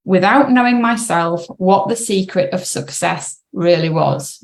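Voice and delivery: measured read-aloud voice with pauses between sentences. Real, not acted. Coach reading an article to clients, careful read-aloud. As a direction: read it out carefully for listeners to follow.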